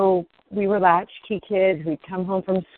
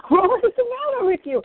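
retold sobbing thought; 10 semitones higher than usual. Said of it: "I am sobbing and I'm thinking".

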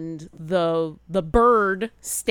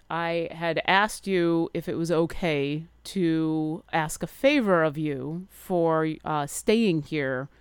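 gentle reminder; 2 semitones lower than usual. Acted. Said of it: "Leogen reminds you gently".

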